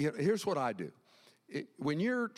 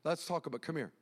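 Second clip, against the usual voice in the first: gracious; faster than usual. Acted. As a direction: gently beckon someone close, voice lowered. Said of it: "He's gracious".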